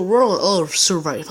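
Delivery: put-on game title in a showy English accent; drawn-out, mock-English pronunciation. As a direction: show off a hammed-up English accent. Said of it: "Vous avez vu mon super accent?".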